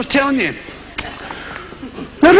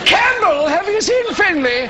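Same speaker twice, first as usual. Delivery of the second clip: higher-pitched mock clan voice; surname clan member; 5 semitones higher than usual. Clan member asks another after Finlay, mock chummy call. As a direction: hail a fellow clansman in caricature.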